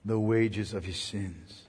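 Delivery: whispered close of the sermon; hushed reverence. Acted. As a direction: let it fall to a reverent hush. Hushed solemn ending.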